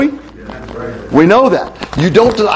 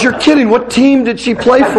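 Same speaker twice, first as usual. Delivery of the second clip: higher-pitched mock astonishment; feigned surprise; 6 semitones higher than usual. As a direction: play the young guy hastily covering his blunder. Backpedalling young man in a retold joke.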